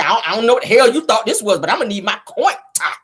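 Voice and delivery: sassy money check, coin top; with attitude. Shown as a demonstration. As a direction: check someone about your money. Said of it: "You gotta say it with an attitude".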